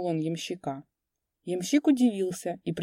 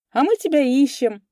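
loud gleeful call; 8 semitones higher, 8 dB louder than usual. A narrator's reading. Coachman grins and calls out.

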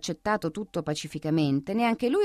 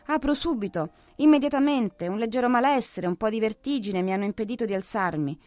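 in a frantic rush; 4 semitones higher than usual. Acted. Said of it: "in gran furia".

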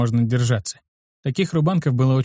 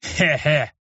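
put-on old man chuckle. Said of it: "засмеялись первые два деда".

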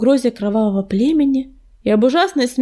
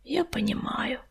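soft, sympathetic whisper; hushed, barely voiced reassurance; 2 semitones higher, 10 dB quieter than usual. A narrator's reading. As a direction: whisper it gently. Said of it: "прошептал Огнезвёзд".

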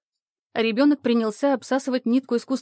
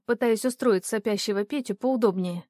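usual speaking voice

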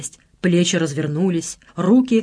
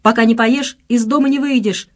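raised, firm motherly ultimatum; decisive; 5 semitones higher, 5 dB louder than usual. A narrator's reading. Mother insisting her son eat first, decisive. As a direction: lay down the law, louder. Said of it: "решительно заявила вслед Татьяна Николаевна".

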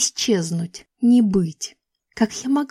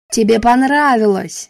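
louder, snapping shout; yelled; 6 dB louder than usual. A narrator's reading. Adam finally snaps at Grace, shouting. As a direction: lose your temper and yell it. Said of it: "заорал Адам".

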